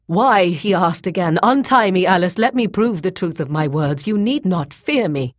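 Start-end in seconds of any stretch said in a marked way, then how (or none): 0.1-0.5 loud, high, urgent question; desperate demand. A narrator's reading. Captive uncomprehending at her silence, desperate demand. Captive asks again, refused. 1.4-5.3 raised-pitch, insistent begging; urgent plea. A narrator's reading. Bound Boyce begging Grey Alis to untie him, urgent plea.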